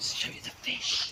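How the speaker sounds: quiet whispering. Giving viewers a quick garden tour on camera, whispering. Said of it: "I'm whispering".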